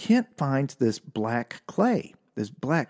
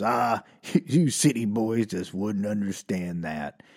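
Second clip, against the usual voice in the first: redneck coworker; 3 semitones lower, 3 dB quieter, slower than usual. Retold or imitated. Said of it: "this one guy looks at us and goes".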